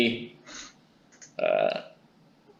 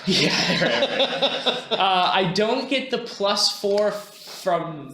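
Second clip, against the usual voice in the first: laughing; 6 semitones higher, slower than usual. Real, not acted. Player laughs at failure.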